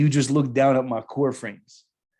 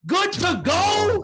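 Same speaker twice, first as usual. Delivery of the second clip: even higher, slower, more incredulous; outraged echo, higher; 4 dB louder, much slower than usual. Retold or imitated. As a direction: push the disbelief to the top. Sergeant major repeats even higher.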